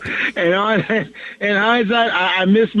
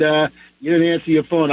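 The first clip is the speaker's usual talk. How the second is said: usual speaking voice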